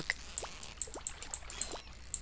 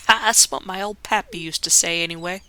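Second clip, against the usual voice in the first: fisherman voice; 4 dB louder than usual. Acted. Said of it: "don't know if I'm gonna keep that voice for him".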